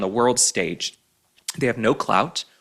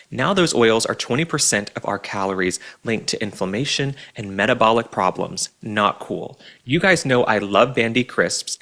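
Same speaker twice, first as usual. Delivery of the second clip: ad read; 2 semitones lower than usual. Real, not acted. Host selling tallow chips to listeners, ad read. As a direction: read the sponsor copy evenly and clearly.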